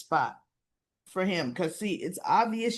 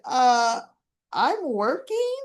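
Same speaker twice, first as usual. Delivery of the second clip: mock excuse; 3 semitones higher, 4 dB louder, much slower than usual. Gio's excuse, retold with a laugh.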